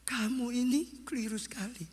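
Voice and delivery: seller's rebuke. Acted. Seller rebukes runaway in story.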